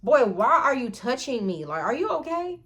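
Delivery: mildly appalled, incredulous; disgusted. Retold or imitated. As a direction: challenge him in high-pitched disbelief. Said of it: "I was just so disgusted".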